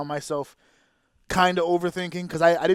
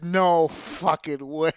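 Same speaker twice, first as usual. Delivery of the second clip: slow disbelief; 2 semitones lower, much slower than usual. Retold or imitated. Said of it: "and I went".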